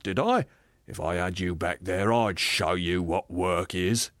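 self-righteous working man, insistent; blustering ghost. Acted. Aggrieved ghost defending the life he led, blustering. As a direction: push each claim like a stubborn grumbler. Ghost sends the spirit away.

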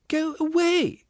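very high squealed cry; squealing ghost. A narrator's reading. Ghost driving off a helper, squealing. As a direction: squeal it out at the top of your range. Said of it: "squealed the ghost".

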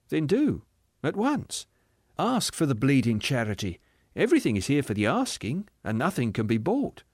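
lilting, earnest urging; eager spirit. Acted. Spirit urging the ghost to ask, eager and gentle. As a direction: press kindly and brightly.

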